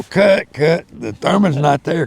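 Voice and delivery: sharp, high call to stop the take; director calling cut. Retold or imitated.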